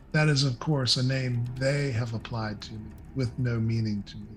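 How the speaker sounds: a touch of regal knowingness; knowing mistress. Acted. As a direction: let it drop, as if sharing a private understanding. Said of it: "she looks very knowingly at Sim. She goes".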